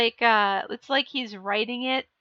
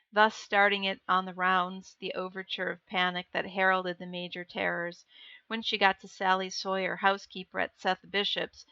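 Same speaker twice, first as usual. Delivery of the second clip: even, measured audiobook reading; story narration; 3 semitones lower than usual. A narrator's reading. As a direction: read the tale aloud in a steady, lower voice. Reads story narration aloud.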